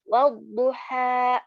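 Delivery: wadduha cut off with a glottal stop at the end; wrong glottal ending. Shown as a demonstration. Teacher showing the wrong cut-off ending of wadduha. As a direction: slowly say wadduha, clipping the end with a hamzah. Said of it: "menambahkan satu huruf hamzah di ujung".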